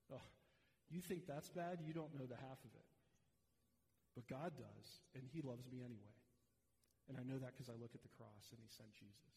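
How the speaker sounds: mild mock defiant retort, settling calm; talking back. Believer talking back to the accuser, mildly defiant. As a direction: answer back, unshaken and sure. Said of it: "what you say is something like this".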